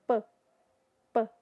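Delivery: P kept on the lips, no puff of air; unaspirated Portuguese p. Shown as a demonstration. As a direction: hold the P at the lips. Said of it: "esse P, ele fica aqui, nos nossos lábios". (P português, preso nos lábios)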